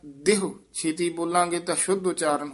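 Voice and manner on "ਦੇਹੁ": ਦੇਹੁ said short and quick; light short ending on ਦੇਹੁ. Shown as a demonstration. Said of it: "ਇਸ ਦਾ ਉਚਾਰਨ ਹੈ".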